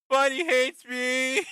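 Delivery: high, slow, whiny mock sadness; mock whine. Stefan, crying and bloody, whining in mock self-pity. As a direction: pout it out like a sulking boy. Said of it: "And he's like".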